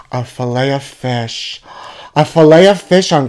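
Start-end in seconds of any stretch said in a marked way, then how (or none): 0.1-1.6 hushed reveal. Acted. Hushed reveal of next best.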